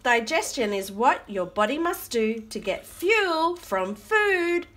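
animated rhyming read-aloud; reading to children. Acted. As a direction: read the verse out for little listeners. Reads rhyming book aloud.

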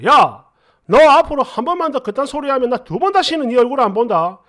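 loud "hey", then a stern warning; mild mock shouting; retold yell. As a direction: lay down a retold ultimatum. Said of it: "이렇게 소리를 확 질렀더니".

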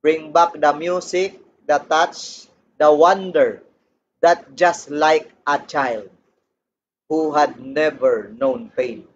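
slow recited lyrics; drawn-out lyric recital. Shown as a demonstration. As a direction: read the song lines slowly and tenderly. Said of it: "ang sabi ay".

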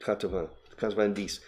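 Quatre-vingts, quatre-vingt-dix said softly in French; teacher repeating the French numbers; French pronunciation. Shown as a demonstration. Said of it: "similar to ventenas or quatre-vingts".

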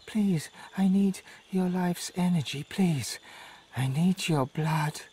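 unvoiced, begging, slowing at the end; pleading whisper. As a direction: beg for life in a whisper. Dying fawn begging.

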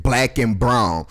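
slow, scornful repeat of "Black and brown"; contemptuous slow parroting; mocking echo. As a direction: drag out "Black and brown" with disgust. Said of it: "Stop saying that bullshit".

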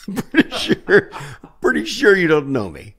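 incredulous falsetto protest; flustered insistence. Retold or imitated. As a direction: protest in a comic high voice. Flustered repeat, acted out.

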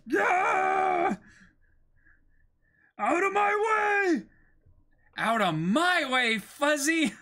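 high, loud charging yell; battle shout. Acted. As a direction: charge in screaming.

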